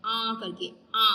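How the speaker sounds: आ hummed through the nose; nasal आ demo; nasal ah sound. Shown as a demonstration. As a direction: let आ ring through the nose. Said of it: "सिर्फ नाक से निकलती है".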